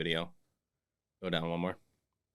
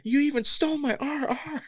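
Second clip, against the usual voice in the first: much higher mocking rap voice; mock Tolkien voice. Tolkien dissing Martin in a rap battle, high mocking voice. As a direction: sneer it in a squeaky voice. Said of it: "He goes".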